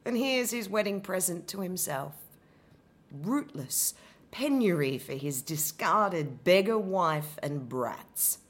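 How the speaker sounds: bitter, wounded Medea, building to sarcasm; an abandoned wife raging at Jason; Medea's lament. Acted. Abandoned wife confronting Jason, bitter and wounded. Medea monologue, first take.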